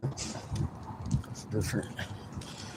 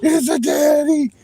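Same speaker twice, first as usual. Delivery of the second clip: high, loud squealing dog voice; voicing the dog; 4 dB louder than usual. Voicing her freaked-out dog seeing daddy, high squeal. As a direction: squeal it like a panicked puppy. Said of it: "She's like".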